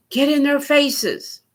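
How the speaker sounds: hammed-up fiery speech; mock ranting. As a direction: parody of a firebrand urging the crowd. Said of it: "she said".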